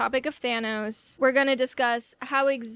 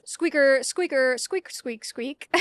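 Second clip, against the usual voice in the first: squirrel squeaks fading; slower than usual. Pretend. Vlogger mocking Squirrel Girl's army, fading squeaks.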